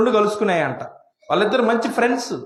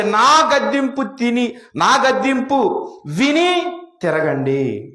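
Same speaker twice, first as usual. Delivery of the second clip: slow solemn scripture quote; 2 semitones higher, slower than usual. Shown as a demonstration. Preacher quoting God's words.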